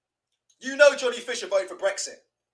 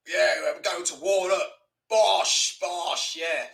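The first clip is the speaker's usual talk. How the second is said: slower, lower mock boxer catchphrase; imitating Johnny Fisher; 3 semitones lower, much slower than usual. Streamer mocking the boxer's slow pre-fight line, lower and slower. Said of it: "Look how he talks".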